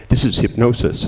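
lightly voiced doctor, matter-of-fact; mild doctor insisting it's only hypnosis; doctor's verdict. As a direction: state it like a sceptical doctor. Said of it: "the doctors are going".

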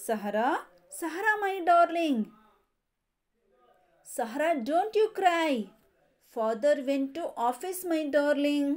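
livelier chanted repeat of the rhyme; rhyme recitation again. Shown as a demonstration. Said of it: "Once again". (ಮತ್ತೊಮ್ಮೆ ಉತ್ಸಾಹದ ಪದ್ಯ ಪಠಣ)

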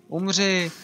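loud fierce cry; battle shout. Real, not acted. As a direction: yell it as you strike. Attacking enemy. (bojový pokřik)

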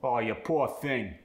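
poor said as "poo-uh"; Cockney sympathy, poor with UA; Cockney oor sound. Shown as a demonstration. Student demos the Cockney oor sound. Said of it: "oor sound gets the ua sound".

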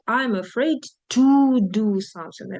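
TO leaned on, slow and deliberate; slow teacher demo, lean on the little word "to"; stress on to. Shown as a demonstration. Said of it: "ходить з to".

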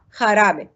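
"خرابة" starting with Arabic-style kh; jota as kh. Shown as a demonstration. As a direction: model "خرابة" with a throat kh. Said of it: "حرف الخوتا في اللغة الإسبانية ينطق خ".

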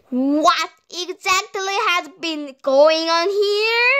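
mildly outraged, rising question; indignant demand. Acted. Missus Hen confronting the boys, indignant. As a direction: draw it out upward, demanding an answer.

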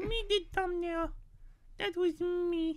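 a put-on cute anime streamer voice; lightly voiced chirpy VTuber. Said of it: "I'm gonna stop with that voice".

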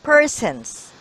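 "Persons" said firmly with a clear closing s; final S sounded. Shown as a demonstration. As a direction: punch "Persons" and sound the S at the end. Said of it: "S, with S".

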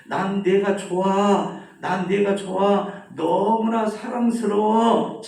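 다정하게 외침. Acted. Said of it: "산에 가서 다시 한번 해봐".

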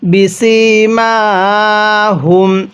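বিসিমাহুম with the final ম hummed long through the nose; গুন্নাহ করে; nasal ghunnah. Shown as a demonstration. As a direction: hold a nasal hum on the ম of বিসিমাহুম. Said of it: "গুন্নাহ করব".

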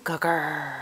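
whispering. Real, not acted. Whispered praise to toddler.

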